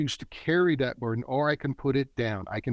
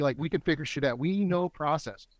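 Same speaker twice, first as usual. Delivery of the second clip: grateful pride; 2 semitones higher than usual. Acted. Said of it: "is to be grateful".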